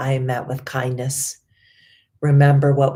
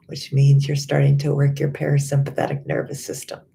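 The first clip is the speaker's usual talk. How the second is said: sighing yawn. Shown as a demonstration. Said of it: "you might even yawn".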